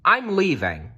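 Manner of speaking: a hint of a boy who gives up; young Nicholas. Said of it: "Nicholas said".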